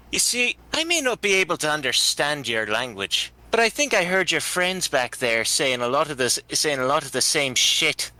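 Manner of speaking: lightly voiced character, confronting and defiant; feisty human fighter. Anne to a haughty elf, hands on hips, defiant. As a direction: square up to him in character.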